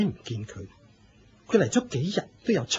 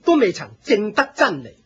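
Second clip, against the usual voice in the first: louder and higher, projecting to a crowd; addressing the crowd; 7 semitones higher, 5 dB louder than usual. Acted. Fire cult leader announcing to his assembled disciples, projecting. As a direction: call out to the whole gathering.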